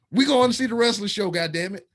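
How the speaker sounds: high, fast mock demand; mock bossy shout. Dragging his girlfriend along, a playful mock shout. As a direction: playfully boss her into going.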